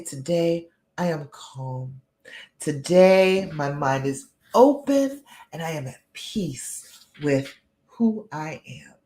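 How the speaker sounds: wholehearted, measured self-affirmation; heartfelt affirmation. Shown as a demonstration. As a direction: say it like you mean it, with pauses. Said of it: "say it like you mean it with all your heart".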